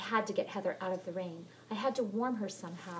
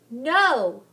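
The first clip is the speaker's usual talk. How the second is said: loud high cry of refusal; defiant shout; 6 semitones higher, 16 dB louder than usual. Acted. Molly shouting back at the ghost. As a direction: throw the word back at her.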